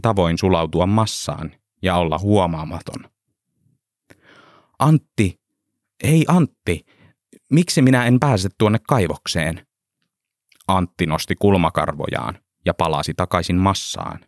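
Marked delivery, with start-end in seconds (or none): 4.8-9.7 raised voice calling across the queue. Acted. Pentti calls to Antti in queue. (huutaa kaverille jonon yli)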